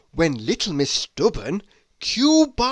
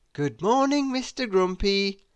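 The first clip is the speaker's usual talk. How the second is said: cheery greeting; 2 semitones higher than usual. Acted. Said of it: "with a cheery wave".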